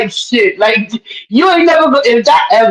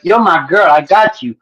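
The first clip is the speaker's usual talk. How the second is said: low, reassuring acted aside; supportive; 6 semitones lower than usual. Promising to be there for a crying friend, reassuring. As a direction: play the loyal friend, voice dropped low. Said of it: "I'm gonna be there for you".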